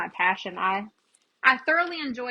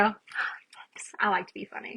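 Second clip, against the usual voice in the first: breathy whispered aside, half to herself; slower than usual. Real, not acted. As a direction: drop to a whisper and tease. Aside to viewers after thanks.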